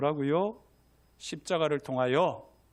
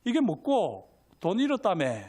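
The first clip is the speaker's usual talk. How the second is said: Gyeongsang dialect. Acted. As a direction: challenge her with a Gyeongsang lilt. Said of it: "경상도 사투리로 할게요".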